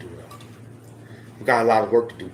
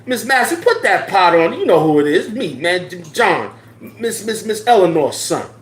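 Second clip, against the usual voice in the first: high, loud call up the stairwell; a high, loud yo Miss Massey holler; calling through the building; 6 semitones higher, 4 dB louder than usual. Pretend. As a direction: holler for the neighbour lady to hear. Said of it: "would have yelled through the building".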